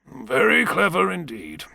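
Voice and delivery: high, slow, drawn-out admiration; emphatic musing. Acted. Savage alone looking out of the window, drawn-out admiration. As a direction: stretch it out and lift the pitch. Repeats his praise with emphasis.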